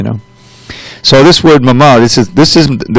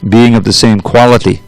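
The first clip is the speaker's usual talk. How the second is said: scripture reading. Acted. Teacher reading the purport to students, formal reading voice. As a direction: read the holy text steadily to the class.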